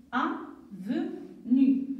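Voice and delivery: "Avenu" repeated slowly, syllables held. Shown as a demonstration. Teacher repeats "Avenu" slowly for the class. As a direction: echo "Avenu" slowly for pupils to copy. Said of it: "qui peut me lire la première syllabe?".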